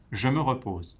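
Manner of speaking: REPOSE dropping to close the sentence; falling intonation. Shown as a demonstration. Teacher showing the final French unit, REPOSE falling. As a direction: let REPOSE fall at the end. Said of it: "goes down at the end of the sentence".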